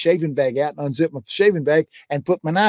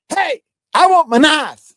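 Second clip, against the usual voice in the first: high, loud, drawn-out yell; screamed out; 13 semitones higher, 7 dB louder than usual. Retold or imitated. Preacher yelling for his lost knife, mock shout. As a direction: yell it out across the room. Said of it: "I screamed out".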